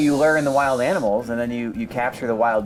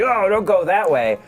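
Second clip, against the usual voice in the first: warning call; 6 semitones higher, 4 dB louder than usual. Retold or imitated. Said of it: "And he's like".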